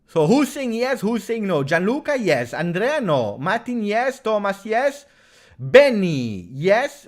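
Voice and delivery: high and loud, rattling off the names; excited roll call. Real, not acted. Streamer reading out viewers' votes, excited and loud. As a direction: hype up the chat as you read each vote.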